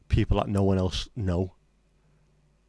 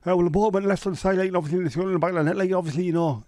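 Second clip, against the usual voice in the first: high, loud mumbly Geordie footballer; Peter Beardsley impression; 9 semitones higher, 4 dB louder, faster than usual. Streamer mocking Peter Beardsley's interviews, high and loud. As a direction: talk like there's a hot potato in your mouth. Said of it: "So, Peter".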